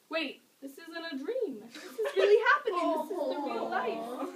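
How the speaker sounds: high-pitched, tearful dawning realization; acted-out tearful disbelief; imitated crying. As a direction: start stunned, then rise into a panicky mock wail. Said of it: "And then I start crying".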